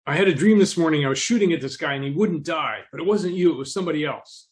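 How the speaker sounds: a shaken gunman blurting out his dream; freaked out. Retold or imitated. Gunman telling his victim about the dream, agitated and high. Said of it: "he freaked out".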